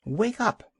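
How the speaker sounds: sharp high bark of a call; barked wake-up call. Acted. Young seal waking the old walrus, a high bark. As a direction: snap the gulls' racket awake with it. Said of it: "barked Kotick".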